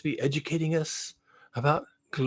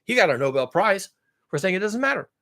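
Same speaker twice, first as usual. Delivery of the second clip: mocking quote; 5 semitones higher than usual. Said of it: "And you're saying".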